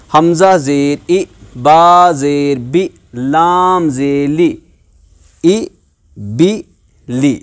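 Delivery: measured chant with drawn-out letter names; teacher leading a syllable drill; spelling drill recitation. Shown as a demonstration. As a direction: recite each letter and vowel steadily, then join them.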